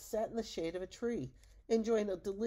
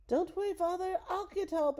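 high, loud call over the shoulder; calling back; 12 semitones higher, 5 dB louder than usual. Acted. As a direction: shout back while running off. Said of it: "called over his shoulder".

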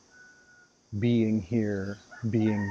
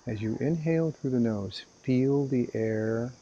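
unhurried guiding voice with long pauses; guided meditation. Acted. Meditation teacher guiding listeners to inhale and exhale, calm guided meditation. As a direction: lead them calmly through each breath, leaving room between phrases.

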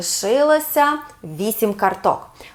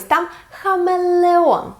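slow, higher, drawn-out хамелеон; slow model word; 6 semitones higher, slower than usual. Shown as a demonstration. Teacher models хамелеон to a child, slow and high. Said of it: "Повторимо разом".

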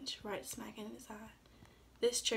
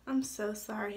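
mild sorry; 4 dB louder than usual. Acted. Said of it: "he exclaimed".

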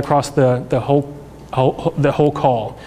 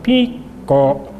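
imitated frog call. Shown as a demonstration. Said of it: "So it sounds like".

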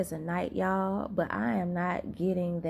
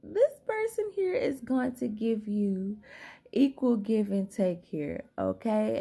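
slow words stretched by a yawn; yawning while talking; 3 semitones higher than usual. Real, not acted. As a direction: talk through a real sleepy yawn. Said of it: "I can't stop yarning".

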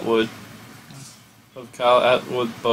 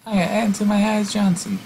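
much higher put-on pitchman voice; cheesy announcer voice; 10 semitones higher than usual. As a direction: introduce yourself like a cheesy TV host. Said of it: "Say it".

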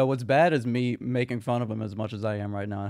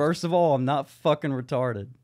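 louder, mildly angry imitation; mock angry; 3 dB louder than usual. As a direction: imitate an indignant declaration. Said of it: "how angry he is".

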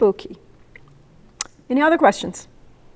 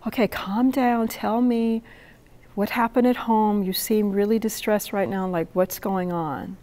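softer, calming words to someone upset; soothing; 6 dB quieter than usual. Retold or imitated. Poet calming the distressed traveler, soft reassuring voice. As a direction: settle her down gently. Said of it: "and I'm like".

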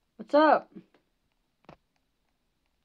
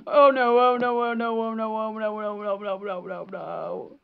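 dread fading. Real, not acted. Doom as chaser closes in.

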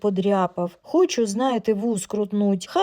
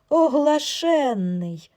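scolding; 6 semitones higher, 3 dB louder, much slower than usual. Acted. Wife scolds husband.

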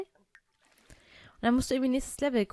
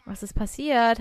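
repeated question; 5 dB louder than usual. Real, not acted. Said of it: "hab ich gefragt".

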